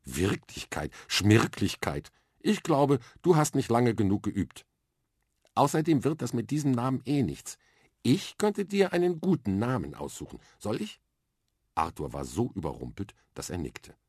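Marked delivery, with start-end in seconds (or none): 0.0-2.1 scornful, drawn-out Schmirklichkeit, slower; dismissive. Acted. Mia dismisses Arthur's reality talk, scornful. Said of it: "sagte abschätzig". 2.4-11.0 put-on higher, bright-eyed girl's voice, matter-of-fact; a confident little girl explaining her plan; lively young girl. Girl with a bucket on her head explains space training to Arthur, eager and matter-of-fact. Mia offers a name.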